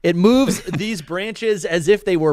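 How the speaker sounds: slow, laughing through the hiccups. Real, not acted. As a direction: read on despite hiccups. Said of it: "I got the hiccups".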